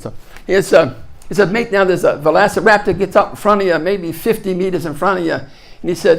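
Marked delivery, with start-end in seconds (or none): 1.5-5.3 put-on Australian accent. Movie expert telling scientists how raptors hunt, Australian accent. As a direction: imitate the Australian guy from the film. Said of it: "I love to do the Australian accent".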